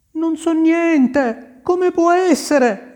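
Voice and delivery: high, slow, protesting innocence; a frightened gardener insisting he knows nothing; pleading gardener. A narrator's reading. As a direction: gardener pleads with the angry prince. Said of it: "badava a dire il giardiniere".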